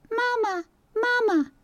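high, crying chick calling for mama; tiny whimpering peep; crying gosling peep. Acted. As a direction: wail it like a lost chick. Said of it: "peeped the gosling".

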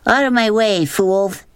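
high, sudden imperious outburst; girl jolting awake, shouting at everyone around her. Acted. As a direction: bark it out like a waking queen. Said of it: "suddenly sat up straight and shouted".

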